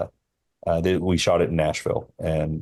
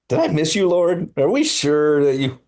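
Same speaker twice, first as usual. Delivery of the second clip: pleading prayer; 10 semitones higher, 4 dB louder than usual. Retold or imitated. Crying out to God while driving.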